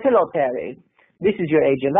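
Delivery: put-on lightly accented German agent; a hint of a German accent; German diva. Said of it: "the German diva".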